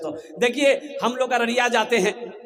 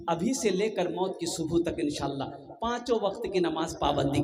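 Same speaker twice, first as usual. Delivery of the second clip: lower, softer pleading counsel; earnest appeal; 4 semitones lower, 4 dB quieter than usual. Real, not acted. Preacher earnestly asks for a pledge.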